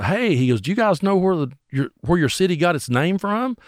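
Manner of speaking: high imitated stage patter; drummer addressing crowd. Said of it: "takes it upon himself to talk to the crowd".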